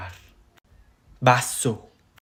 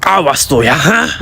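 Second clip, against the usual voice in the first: mild threat with a raised tag; mock angry warning; faster than usual. Angry person warning someone, mildly acted threat. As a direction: warn them, lifting the final grunt. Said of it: "Kalau kamu marah".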